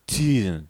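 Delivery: rounded lips, Tool said with pursed rounded lips. Shown as a demonstration. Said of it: "round your lips like you want to say tool".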